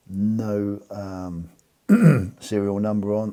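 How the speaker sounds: normal talking voice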